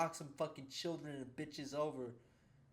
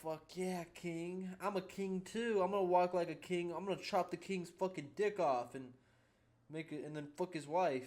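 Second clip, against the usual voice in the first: mock hyped-up fanboy, pitched up; imitating cringe fans; 5 semitones higher, 4 dB louder than usual. Streamer mimics viewers who watch this stuff, mock hype. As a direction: puff it up like a wannabe king. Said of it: "they're like".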